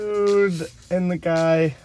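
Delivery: slow, drawn-out announcer voice; show title announcement. Acted.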